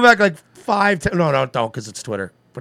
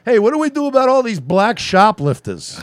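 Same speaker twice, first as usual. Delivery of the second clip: louder, higher mock question at the mic; mock town hall question; 8 semitones higher, 6 dB louder than usual. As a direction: play a troll asking the next question at the mic. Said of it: "The next guy that goes up".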